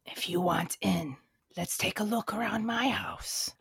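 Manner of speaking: whispered zombie lure; creepy whisper. Acted. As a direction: breathe it like a secret trap.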